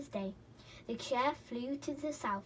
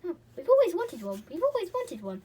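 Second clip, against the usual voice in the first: high, loud greedy glee; gleeful gnome shouts; 8 semitones higher, 9 dB louder than usual. A narrator's reading. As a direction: chant with greedy delight. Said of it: "they shouted".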